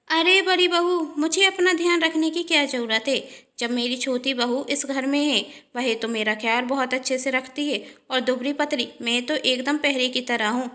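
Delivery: a mother-in-law proudly praising her younger daughter-in-law; mother-in-law's voice. Acted. Mother-in-law to elder daughter-in-law, lightly voiced and affectionate.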